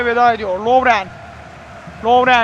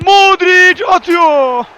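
screaming football commentator; 3 semitones higher, 5 dB louder, much slower than usual. Real, not acted. Penalty shootout commentary.

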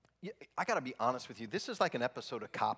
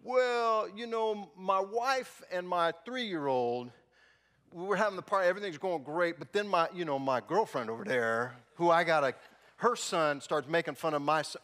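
higher, louder guy explaining; rambling excuses; 4 semitones higher, 5 dB louder than usual. Retold or imitated. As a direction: ramble your way through it.

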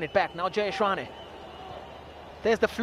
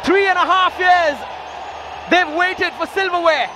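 raised, proud trophy call; triumphant call; 4 semitones higher than usual. Real, not acted. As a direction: celebrate the win. Final whistle, trophy won.

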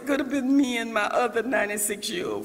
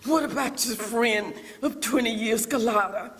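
voice of the Lord. Retold or imitated. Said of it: "the Lord spoke to me and said".

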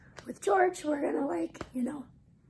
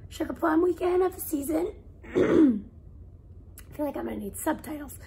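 lost voice, raspy and breathy; raspy whisper. Real, not acted. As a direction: talk through a voice that's gone. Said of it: "I have no voice".

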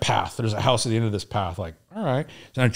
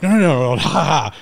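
laughing disbelief; 5 semitones higher, 6 dB louder, faster than usual. Retold or imitated. Incredulous reply to guard duty.

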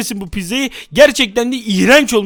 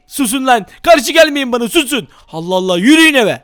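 angry act. Acted. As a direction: bark at the kids to go home. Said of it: "sinirli taklidine geçelim". (sinirli emir)

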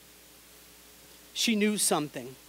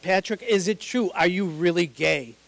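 insistent repeat; 3 semitones higher, 5 dB louder than usual. Retold or imitated. Mom pressing her son, louder and insistent. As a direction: push harder the second time.

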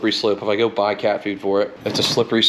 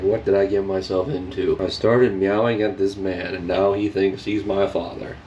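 lower, lightly voiced cat thoughts; voicing the cat; 5 semitones lower than usual. Man voicing what the bathed cat thinks, a lightly lower voice. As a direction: mumble the cat's inner worries, low. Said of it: "He's like".

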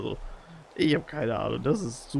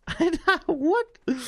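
laughing disbelief; 13 semitones higher, 4 dB louder, much slower than usual. Real, not acted. Amazed at new creature.

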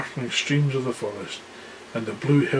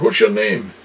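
roar; 3 semitones lower, 4 dB louder than usual. Acted. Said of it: "he roared".

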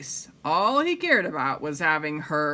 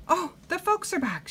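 Amelia voice; 12 semitones higher than usual. Acted. Amelia Bedelia voiced in story.

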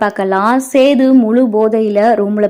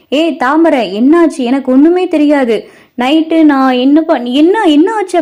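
narrator's raised, louder panicky questions; mildly alarmed, higher-pitched asking; frightened questioning; 6 semitones higher, 5 dB louder, slower than usual. A narrator's reading. Sethu asks Thamarai what happened last night, frightened. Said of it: "சேது பயந்துகிட்டு கேட்க ஆரம்பிக்கவும்".

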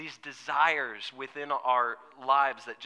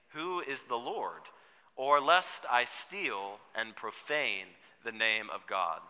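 slow scripture reading; 4 dB louder, slower than usual. Acted. Congregation reads scripture aloud together.

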